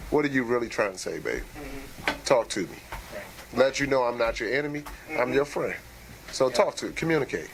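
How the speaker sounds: gentle and caring. Retold or imitated. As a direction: coax her to talk, kindly. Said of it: "as opposed to saying".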